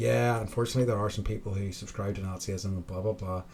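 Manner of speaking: ordinary delivery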